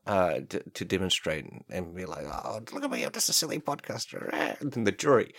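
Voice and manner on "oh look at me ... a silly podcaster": silly voice. Pretend. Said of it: "I'll do some silly voices".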